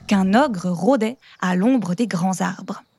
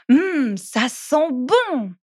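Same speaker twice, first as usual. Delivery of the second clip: savouring; 3 semitones higher, much slower than usual. Acted. Child pretends sauce smells good.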